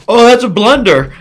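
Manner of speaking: high squealy laughing cry; squealing laugh. Real, not acted. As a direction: shriek then laugh at the blunder. High squeal at own blunder.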